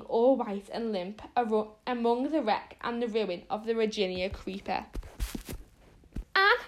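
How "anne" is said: terrified shriek, much higher. A narrator's reading. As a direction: shriek it in fright over a fallen friend. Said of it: "shrieked Diana".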